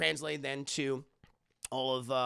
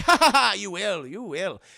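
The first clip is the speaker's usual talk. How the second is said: mock villain laugh; 3 semitones higher, 10 dB louder than usual. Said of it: "he's like".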